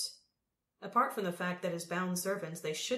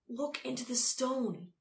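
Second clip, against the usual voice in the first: higher-pitched plea; pleading; 6 semitones higher than usual. A narrator's reading. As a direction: beg them earnestly. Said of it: "he pleaded".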